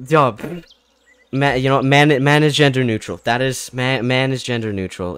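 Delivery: loud, laughing insistence to the viewers. Real, not acted. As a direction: announce it loudly to chat. Insisting loudly to chat.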